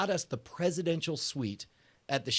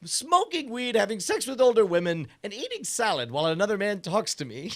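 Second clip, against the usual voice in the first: Ben Franklin bit; 6 semitones higher, 5 dB louder than usual. Pretend. Playing Benjamin Franklin, laughing.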